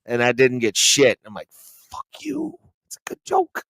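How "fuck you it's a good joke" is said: high, thin mocking voice; mock heckler. Comic mocking himself at the mic, high squeaky voice.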